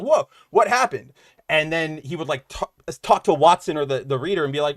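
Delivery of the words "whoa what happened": mock surprise. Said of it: "And you'd be like".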